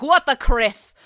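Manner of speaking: loud, high shocked exclamation; shocked outburst. Acted. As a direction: blurt it out in disbelief. Obi-Wan shocked, swearing.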